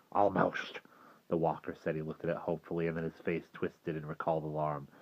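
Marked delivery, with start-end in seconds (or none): 0.1-0.8 breathed, unsure whisper; hesitant whisper. Acted. Walker half-trusting the fire, whispered. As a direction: barely breathe the word.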